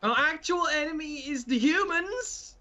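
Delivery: indignant retort. Acted. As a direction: push back hard on him. Character angrily rebuts Krax.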